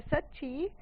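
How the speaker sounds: a quick, hopeful lift of excitement; mock-excited, lightly voiced eager question. Arun asks his friend eagerly, lightly excited. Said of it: "excited वे में उसकी तरफ देख के बोलता है".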